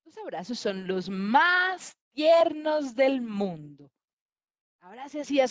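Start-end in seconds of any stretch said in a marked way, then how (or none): 0.1-3.9 tender declaration. Acted. Leopard praises mother's tender hugs.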